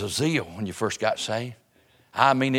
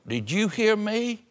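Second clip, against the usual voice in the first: pitched much higher, slow and pointed; mock parent scolding; 9 semitones higher, slower than usual. Parent asking children if they heard, high and drawn out. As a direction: stretch out the nagging parent question. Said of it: "ask your children".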